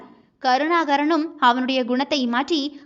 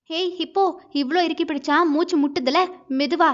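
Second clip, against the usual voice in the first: higher-pitched, mildly squeezed complaint; playful protest; 4 semitones higher than usual. Acted. Wife telling hugging husband to go easy, playful protest. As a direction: protest lightly at being held too tight.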